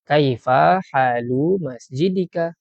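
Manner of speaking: slow, careful Arabic drill; slow deliberate teacher model; slow model phrase. Shown as a demonstration. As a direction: say it slowly for students to copy. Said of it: "Kita cakap".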